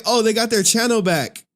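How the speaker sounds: exaggerated, high-pitched echo of being fooled; retold surprise. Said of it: "I'm like".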